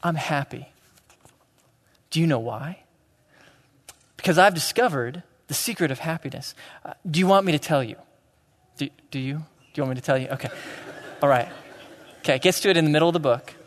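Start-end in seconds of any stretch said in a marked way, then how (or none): 0.0-10.3 put-on storybook child voice. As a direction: read it like to small children, hushed. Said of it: "I'll do this in my best voice for you".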